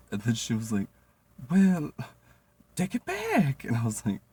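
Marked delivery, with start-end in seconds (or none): 1.5-3.6 much higher, louder boss voice; mimicking bossy Jenny. Boss ordering the waitress to take the plate back. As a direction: snap it back high like the boss.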